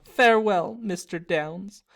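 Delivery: high, slow farewell; a little elf saying goodbye; tearful elf goodbye. Acted. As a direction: elf bidding his friend farewell.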